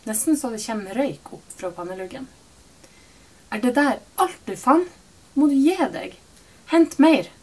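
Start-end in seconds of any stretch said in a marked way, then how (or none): 3.5-7.3 higher and louder, building to a yell. A narrator's reading. Mother yelling at daughter over the half-empty cart. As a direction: bawl at her, rising in anger. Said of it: "kauker hun".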